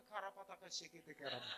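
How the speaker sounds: lightly parodied tongues babble; mock speaking in tongues. Pastor mimics an over-spiritual youth's greeting, mock tongues. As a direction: rattle off pretend spirit language. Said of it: "menjawabnya bahasa roh".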